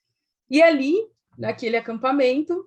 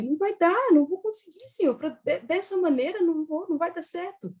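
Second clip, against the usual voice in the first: near tears; 7 semitones higher than usual. Retold or imitated. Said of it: "E chorando ali, chorando não, quase chorando".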